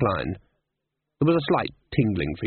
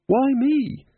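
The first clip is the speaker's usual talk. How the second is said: much higher, louder complaint; exasperated cry; 3 dB louder than usual. Acted. Susan to Ridcully complaining, exasperated. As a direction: wail at the unfairness.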